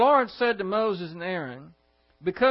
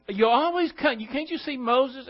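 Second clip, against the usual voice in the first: livid Moses; 6 semitones higher, 4 dB louder than usual. Acted. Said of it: "he is livid".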